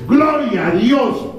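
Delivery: high, slow Gloria a Dios; exultant shout of praise, slow; drawn-out praise. Acted. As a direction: stretch it out in praise. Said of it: "exclamation of praise".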